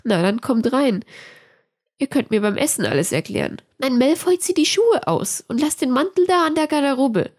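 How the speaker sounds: lightly voiced Hermine, brisk hostess; a hint of Hermine.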